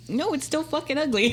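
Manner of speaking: high, laughing mock outrage; laughing disgust. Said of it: "I was like".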